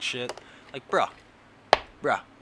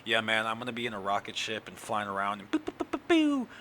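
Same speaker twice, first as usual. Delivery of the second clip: mock space cadet. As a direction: play a dorky Guardian making rocket noises. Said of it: "I was like".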